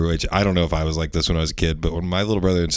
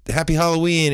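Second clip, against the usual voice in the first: lightly imitated, higher-pitched greeting; cheery greeting; 10 semitones higher than usual. Woman greeting a boy at the door, lightly mimicked cheer. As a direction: lift it up like greeting a kid.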